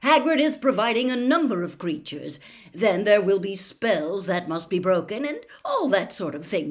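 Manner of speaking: brisk, bouncy enthusiasm; upbeat announcer of a fun contest; cheery Bagman. Acted. Bagman voiced, cheerful and loud.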